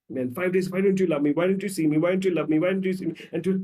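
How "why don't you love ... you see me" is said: higher, insistent appeal; urgent, raised-pitch questioning; acted pleading. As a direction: play a neglected woman begging for love. Woman acted pleading with her partner.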